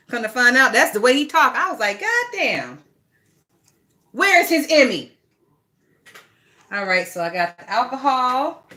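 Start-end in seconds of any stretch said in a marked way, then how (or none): 2.0-5.1 high, loud comic astonishment; retold amazement. Fan reacts to the actor hiding his accent, loud retold amazement. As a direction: exclaim it high, hugely impressed. Recalls being amazed by the acting.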